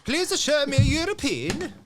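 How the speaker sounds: put-on high sing-song Swedish accent. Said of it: "That sounded way too Swedish".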